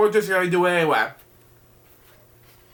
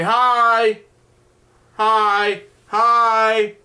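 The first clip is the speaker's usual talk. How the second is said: friendly hi; 3 semitones higher, 4 dB louder, much slower than usual. Acted. Pants and narrator greet each other.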